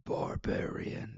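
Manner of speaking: slow, whispered wrestler hype voice; Ultimate Warrior voice. Shown as a demonstration. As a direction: breathe it out like a wrestling promo. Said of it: "That's my Ultimate Warrior Barbarian voice".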